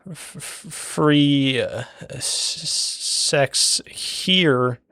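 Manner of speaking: high, drawn-out billboard come-on; seedy billboard voice. Pretend. Storyteller voices a moon billboard, high slow come-on. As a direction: stretch and stutter it like a dodgy ad.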